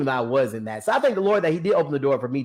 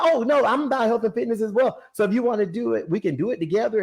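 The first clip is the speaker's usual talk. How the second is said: motivational mom; 8 semitones higher, faster than usual. Retold or imitated. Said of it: "she's so motivational".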